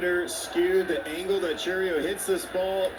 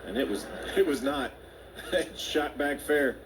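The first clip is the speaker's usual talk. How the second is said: laughing. Real, not acted. Laughing over the face plant.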